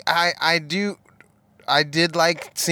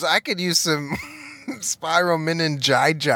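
laughing. Retold or imitated. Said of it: "she goes".

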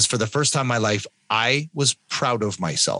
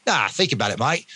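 imitated Australian mate; amateur Australian impression; Australian accent; 2 semitones higher than usual. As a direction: put on a casual Australian accent. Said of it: "I won't do the Australian accent".

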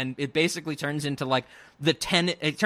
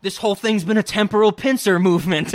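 mock dramatic; 2 semitones higher, 6 dB louder than usual. Mocking the characters' dramatic time warning, louder. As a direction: ham up the sci-fi warning. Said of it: "they're like".

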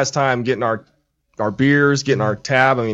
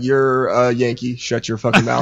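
lightly imitated English accent; a hint of an English accent, imitating a local; retold English accent; 3 semitones lower, slower than usual. Englishman rebuffing the Yankee tourist, mild English accent. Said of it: "he did it in the good accent".

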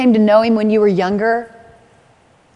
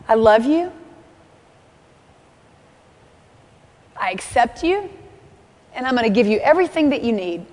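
God's tender words. Retold or imitated. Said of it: "this is what I hear".

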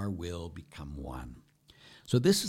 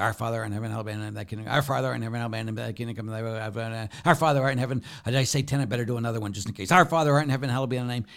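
rattled-off prayer; 2 semitones higher, 4 dB louder, much faster than usual. Shown as a demonstration. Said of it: "what are you gonna do".

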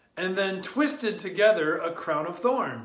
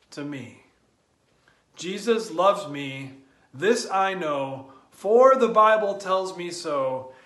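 reverent recitation; 4 dB louder than usual. Acted. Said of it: "we ask of Jesus".

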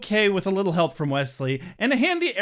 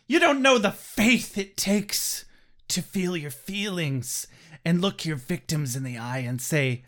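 put-on dramatic teen. Teen speech voiced.

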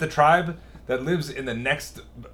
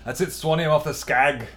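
put-on rough, playful Scottish accent; Trainspotting-style Scottish accent; 2 semitones higher than usual. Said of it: "How bad is your Scottish accent?".

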